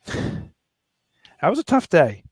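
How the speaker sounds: slow, drawn-out words, holding back tears; choked up. Real, not acted. Recalling his daughter's piggy bank, slow and choked up. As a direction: let it drag out as the feeling catches you. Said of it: "I'm starting to choke up".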